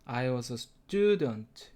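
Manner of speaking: I was a student, word by word, very slow; very slow demo. Shown as a demonstration. Teacher models the full sentence, very slow. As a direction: drag each word out for learners. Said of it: "이렇게 발음해주면".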